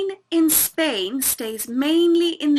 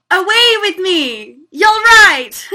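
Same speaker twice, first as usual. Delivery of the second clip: high excited burst; delighted; 6 semitones higher, 10 dB louder, slower than usual. Real, not acted. Learner thrilled to get the Scottish phrase, excited. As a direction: shout it out with glee. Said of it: "learner delighted by phrase".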